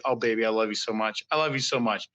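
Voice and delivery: lightly acted lovesick gushing, low and quick; drunk on love. Creator doting on someone, drunk on love. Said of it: "like, drunk on love".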